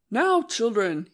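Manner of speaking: hurried, panting greeting; out of breath. Acted. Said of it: "he cried, all out of breath".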